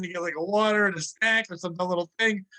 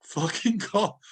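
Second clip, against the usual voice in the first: mild mock yell, pitch climbing; exasperated retold yell; 3 semitones higher than usual. Worker complaining about a silly phone call, exasperated mock yell. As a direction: retell an indignant outburst without full volume. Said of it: "And I yelled out".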